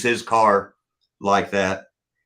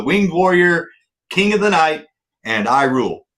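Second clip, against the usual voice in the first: higher, hammed-up boast of a title; mock grandiose; 7 semitones higher, 4 dB louder than usual. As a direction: play it like a pompous champion. Mock self-crowning joke title.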